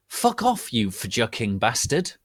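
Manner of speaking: high, hammed-up outraged yell; a hammed-up angry outburst at Hargrid; mock angry shout. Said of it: "I shouted angrily".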